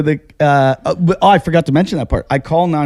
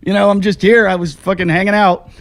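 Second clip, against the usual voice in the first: calling out; 6 semitones higher than usual. Retold or imitated. Calling out to absent staff.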